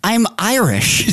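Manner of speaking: slow, high-pitched protest; mock indignant. Real, not acted. Host mistaken for a German, mock indignant.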